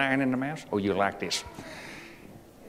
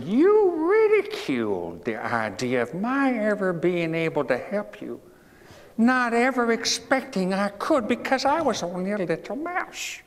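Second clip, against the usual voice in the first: lightly high mouse voice; 8 semitones higher than usual. Acted. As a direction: remind him as a small mouse. Mouse speaks to the lion.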